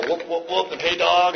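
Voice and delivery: lightly put-on shot-caller talk; trying to sound cool, lightly imitated; mock tough-guy slang. Rehab dudes trying to run the house, mock swagger. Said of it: "how we talked".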